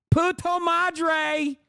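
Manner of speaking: savoring "Puto madre" slowly in mock Spanish. Shown as a demonstration. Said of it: "Venezuelan specific slurs".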